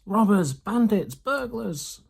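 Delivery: high, loud furious squeals; rat shrieking. A narrator's reading. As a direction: hurl each word after them. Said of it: "shrieked Rats".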